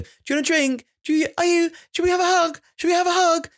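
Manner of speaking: very high breathy sing-song; high breathless toddler talk. Shown as a demonstration. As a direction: coo it high and airy to a toddler. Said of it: "That high-registered, breathless kind of".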